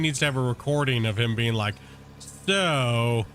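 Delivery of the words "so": slow, drawn-out Australian Irish imitation; Shane's Australian Irish voice. Imitating Shane explaining the Tim Tam Slam in Australian Irish. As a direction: mimic Shane's Australian Irish lilt, stretching the words. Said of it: "in his, in his Australian Irish voice".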